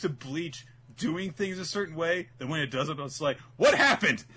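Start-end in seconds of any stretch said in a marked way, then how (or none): 3.6-4.2 high, loud cry of disbelief; mock bewilderment. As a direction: act baffled and outraged, raised pitch. Voicing a bewildered Bleach viewer.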